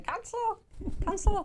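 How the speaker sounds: loud frantic shout; screaming at the car. Retold or imitated. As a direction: yell it at the phone. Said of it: "you're, like, screaming".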